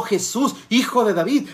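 high, loud cry for mercy; pleading shout. Retold or imitated. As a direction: call out to Jesus with all your lungs. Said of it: "y gritó".

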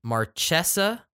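drawn-out Marchesa, high, sh-like ch; wrong pronunciation. Shown as a demonstration. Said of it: "So I've heard".

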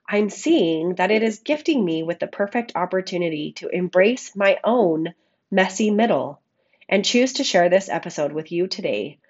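scratchy frog voice from a cold; hoarse, scratchy cold voice. Real, not acted. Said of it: "scratchy frog voice and all".

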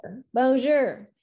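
bonjour said with flat American vowels and a hard r; Americanized "Bonjour, bonjour," no French lilt; American-accented French. Shown as a demonstration. Mocking Americans who overlay their accent, American accent. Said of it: "overlay their American accent".

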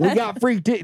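high mock country accent redo; hammed-up country twang imitation; imitating the accent. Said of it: "that was not a New York accent".

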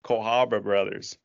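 lightly put-on Boston accent; dropped-R Boston twang, playful. Joking about MacKinnon joining his old pal, mock Boston accent. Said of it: "I did Boston accent there".

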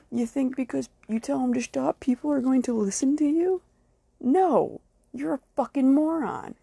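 fed-up yell at Trump; angry outburst. Real, not acted. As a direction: rise into a furious shout of disbelief.

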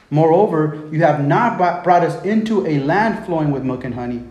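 loud, indignant reading of the rebels' words; defiant rebels. Acted. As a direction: throw the accusation at Moses. Rebels defy Moses, read aloud.

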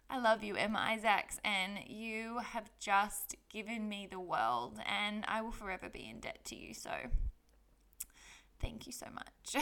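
slowing, fading into a teary whisper; real emotion breaking through the thanks; getting emotional. Real, not acted. Thanking Emma Isaacs for keeping her promise, choked and whispered. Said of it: "oh, I'm getting emotional again".

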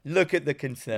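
quoted line. Retold or imitated. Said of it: "I've done that line from this film".

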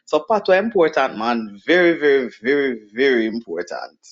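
Jamaican patois with a stacked, emphatic very very. Shown as a demonstration. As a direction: lean into the repeated very, Jamaican style. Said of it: "a patois for me".

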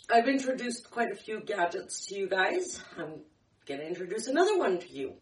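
talking around a candy; mouth full. Real, not acted. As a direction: speak with a sweet in your mouth. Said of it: "I have a candy in my mouth".

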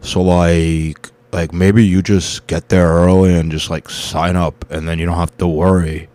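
lightly voiced laid-back stoner; a hint of a lazy stoner, loose and easygoing; imitating the stoner host, barely shifted from own voice; stoner impression. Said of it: "the stoner guy's like".

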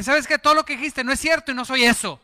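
confident faith declaration; triumphant declaration. Retold or imitated. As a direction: declare it in victory. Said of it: "Y le dije".

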